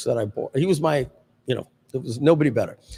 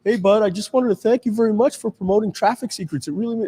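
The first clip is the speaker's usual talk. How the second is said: 1 imitating John Reese; 9 semitones higher than usual. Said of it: "and John's like".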